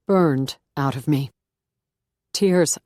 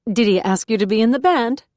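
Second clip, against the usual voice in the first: higher, louder chirpy coworker voice; Martina; 6 semitones higher, 6 dB louder than usual. A narrator's reading. Martina to Beth in the basement, high and eager. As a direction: ask eagerly, already knowing.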